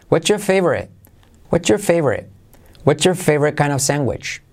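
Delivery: "your" without its R, as "whatcha"; dropped R. Shown as a demonstration. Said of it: "la R de your decaiga". ("What's your" sin pronunciar la R)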